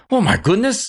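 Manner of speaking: high-pitched, hammed-up amazement; comic high-voiced cook; astonished ship's cook. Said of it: "the cook who literally just".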